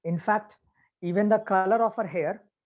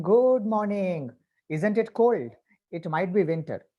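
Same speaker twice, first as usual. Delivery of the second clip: sweeten it falsely, stretching each word; artificial sweetness. Shown as a demonstration. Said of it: "inject some kind of artificial sweetness".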